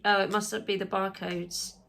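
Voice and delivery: ordinary talk, nothing marked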